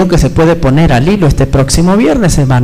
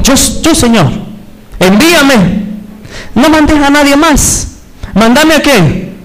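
high, drawn-out fervent plea; volunteer urgently, stretching the words; preacher acting out an impassioned "send me"; eager pleading; 7 semitones higher, slower than usual. Acts Isaiah volunteering eagerly to God.

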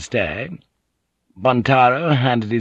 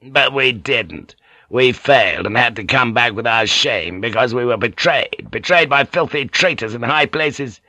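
rasping voice; 2 semitones higher than usual. Acted. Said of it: "his voice rasped".

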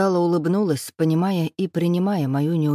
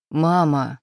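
reproachful. A narrator's reading. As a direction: stretch out the word to scold her. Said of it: "с осуждением протянул я". (протяжно, с укором)

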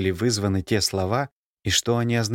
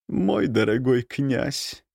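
slow, dry ironic address; 4 semitones higher, slower than usual. A narrator's reading. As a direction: let irony color every word. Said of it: "В голосе графини послышалась ирония".

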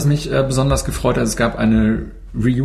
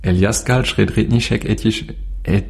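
Wörter rückwärts gesprochen; backwards speech. Pretend. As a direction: stockend rückwärts aufsagen. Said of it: "kann wirklich rückwärts sprechen". (Wörter rückwärts ausgesprochen)

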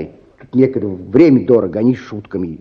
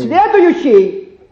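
long high call, very slow; 13 semitones higher, much slower than usual. Acted. Clerk summons the next patient, long high drawn call. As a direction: drag it out, bored and official.

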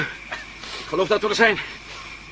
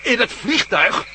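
slow, louder, disbelieving repeat; incredulous echo; 4 semitones higher, 4 dB louder, much slower than usual. Acted. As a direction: drag it out in disbelief. Disbelief at compass left behind.

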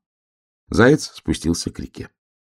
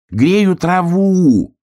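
high, loud, slow drawn-out shout; 12 semitones higher, 6 dB louder, much slower than usual. A narrator's reading. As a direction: yell it so the bear cub hears. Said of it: "крикнул заяц". (громкий протяжный крик)

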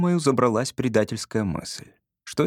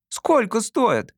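put-on higher, slow, wide-eyed boy asking; delighted; 10 semitones higher, much slower than usual. A narrator's reading. Boy admiring a stranger's shiny boots, delighted. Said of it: "Я пришёл в восхищение".

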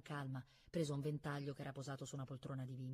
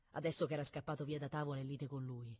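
usual speaking voice

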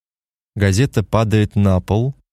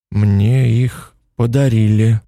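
automatic reply; slower than usual. Acted. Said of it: "ответил Морган автоматически".

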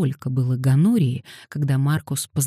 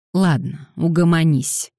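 snapped; 3 semitones higher, 4 dB louder than usual. Acted. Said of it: "прикрикнул Дэниел".

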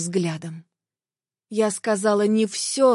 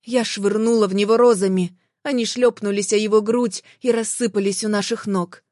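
ordinary delivery, nothing marked

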